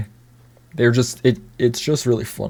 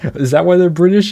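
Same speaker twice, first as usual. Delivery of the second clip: laughing disbelief; 6 semitones higher, 5 dB louder than usual. Real, not acted. Baffled by the movie's logic.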